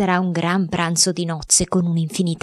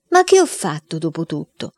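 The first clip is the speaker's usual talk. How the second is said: put-on boy protesting.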